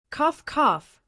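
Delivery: two sharp coughs; angry coughing. A narrator's reading. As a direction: cough it out, choked with anger. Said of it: "so angry that he couldn't breathe properly".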